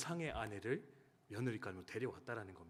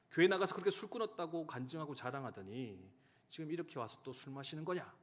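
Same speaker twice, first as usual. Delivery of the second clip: angry scolding; 4 semitones higher than usual. Retold or imitated. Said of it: "그렇게 화를 내며, 분노를 표현했다".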